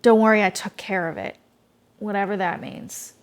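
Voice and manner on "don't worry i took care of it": lightly voiced creepy official; a hint of a sinister, reassuring fixer. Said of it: "this kind of creepy voice".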